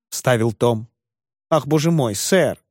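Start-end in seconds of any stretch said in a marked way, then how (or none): none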